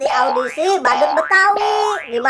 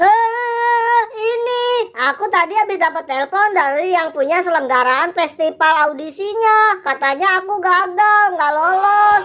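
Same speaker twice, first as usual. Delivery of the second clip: crying; 2 semitones higher than usual. Acted. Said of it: "sekarang kok tiba-tiba kamu nangis?".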